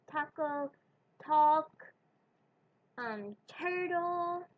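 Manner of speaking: taco, talk, turtle with a puff on each t; aspirated English t. Shown as a demonstration. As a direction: blow out air on the t. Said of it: "other words that start with T".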